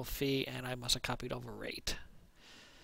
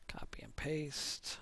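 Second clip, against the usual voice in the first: whispering; 6 dB quieter, slower than usual. Real, not acted. Whispering to self while typing.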